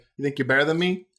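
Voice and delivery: ordinary talk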